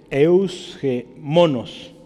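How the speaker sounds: eusgemonos said slowly, stressed on the O in MONOS; slow, careful eusgemonos with the accent on MO; slow pronunciation demo. Shown as a demonstration. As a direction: sound out eusgemonos part by part: eus, ge, MO-nos. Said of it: "Si la quiere decir".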